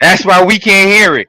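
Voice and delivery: loud, high, laughing outburst. Real, not acted. Host repeating the joke to laughing co-hosts, laughing.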